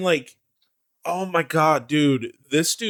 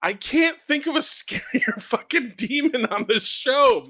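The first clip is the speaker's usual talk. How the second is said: excited; 8 semitones higher than usual. Real, not acted. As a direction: drag it out, thrilled and creeped out. Gushing about the scariest demon.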